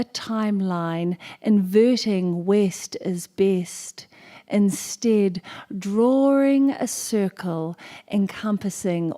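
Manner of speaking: slow, measured performance poetry; stately spoken-word delivery with drawn-out words; poem recital. Acted. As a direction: stretch out each phrase, declaiming to a hall. Recites her poem on stage.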